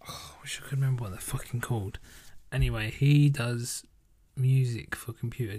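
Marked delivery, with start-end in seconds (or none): 0.1-2.0 whisper. Real, not acted. Frustrated at forgetting band name.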